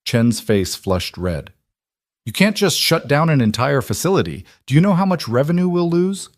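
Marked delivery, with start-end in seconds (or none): 2.2-6.3 flustered protest. Acted. Angry manager protests shutdown.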